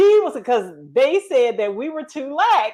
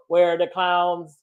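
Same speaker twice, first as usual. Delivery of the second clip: robotic instructor; 5 semitones lower than usual. Retold or imitated. Instructor confronting two laughing trainees, mock robotic. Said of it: "This man sounded like a robot".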